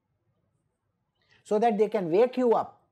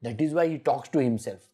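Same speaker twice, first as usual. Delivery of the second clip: mock onlooker; 6 semitones lower than usual. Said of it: "Then the world will say".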